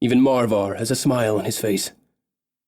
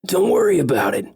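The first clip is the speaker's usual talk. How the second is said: lightly raised, hearty big elf reassuring; optimistic big elf; 8 semitones higher, 3 dB louder than usual. Acted. Big elf comforting the grieving boy, lightly voiced hearty elf. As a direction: brush the worry off like a cheerful big elf.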